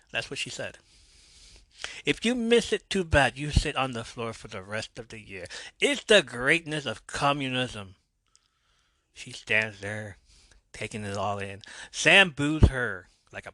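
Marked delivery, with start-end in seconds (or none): 2.0-7.9 put-on Russian accent. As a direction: declare it in a badly faked Russian accent. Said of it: "speaking in a Russian accent".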